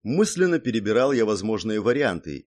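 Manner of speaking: ordinary delivery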